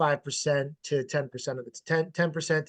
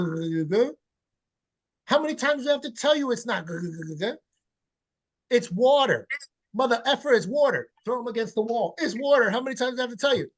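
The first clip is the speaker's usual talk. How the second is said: high, exasperated hammed-up scolding; mock frustrated parent; 5 semitones higher than usual. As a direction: pretend to lose it at the kid, half joking.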